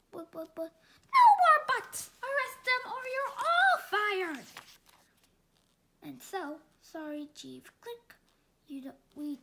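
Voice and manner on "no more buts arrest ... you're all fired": loud higher furious shout; furious mayor threatening the cops; angry yell. Acted. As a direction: lose your temper at them.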